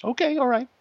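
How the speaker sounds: put-on high eager child voice; imitating an eager little girl; little daughter agreeing. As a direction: chirp it like an excited kid. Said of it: "on two conditions".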